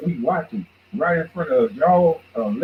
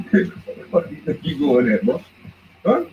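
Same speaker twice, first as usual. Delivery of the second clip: mock fatherly scolding. Father catching his son sneaking out, mock scolding. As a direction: play the strict dad catching his boy. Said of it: "I'm like".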